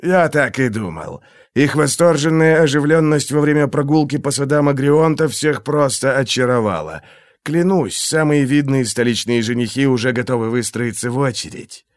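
silky, menacing interrogator; a cold torturer toying with his victim; menacing inquisitor voice. Acted. Glokta's held voice.

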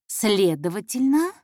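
drawn-out, searching word, tune left rising; confused mumbling. Acted. Intern losing her way before the boss, confused and hesitant. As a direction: stall slowly, losing the thread. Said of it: "бормотала она, всё больше путаясь".

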